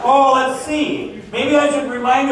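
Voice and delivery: slow, drawn-out mock musing; playing Braley mulling it over, slow and sly; mock pondering. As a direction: stretch it like a schemer thinking it over. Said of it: "how am I gonna do that".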